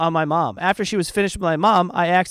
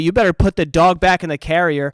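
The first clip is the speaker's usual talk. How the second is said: retold firm warning; 5 dB louder than usual. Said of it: "so I tell the lady firmly".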